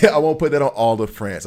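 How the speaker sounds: laughing through a cheeky retraction. Real, not acted. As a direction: laugh it out, cracking up. Laughing at own jab.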